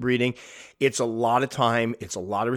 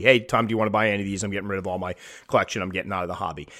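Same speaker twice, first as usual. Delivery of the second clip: hurried quitter; 3 semitones lower, much faster than usual. Retold or imitated. Hobby quitter offers Tom the collection, rushed. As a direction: rattle off an imitated bail-out offer.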